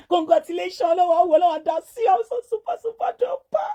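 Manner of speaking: high, elated gushing; excited congratulations. Real, not acted. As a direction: squeal your congratulations, high and fast. Celebrating a new baby.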